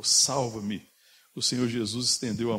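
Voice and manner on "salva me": louder, held plea for rescue; retold cry. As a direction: imitate Peter's cry without a full shout. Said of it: "quando ele gritou". (grito de socorro contido)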